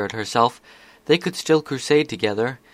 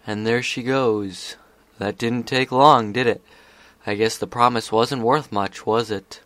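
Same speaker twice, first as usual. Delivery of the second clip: sly taunting voice; 4 dB louder than usual. Acted. Discord taunting.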